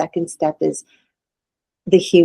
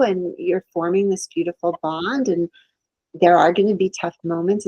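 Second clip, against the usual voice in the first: genuine encouragement; 3 semitones higher than usual. Retold or imitated. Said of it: "genuinely say".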